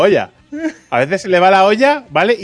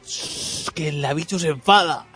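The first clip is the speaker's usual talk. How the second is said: hushed shh, much softer; imitating a whisper; 8 dB quieter, slower than usual. Wife shushing her husband mid-scene, whispered. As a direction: shush him like in a cinema. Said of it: "me mira y me dice".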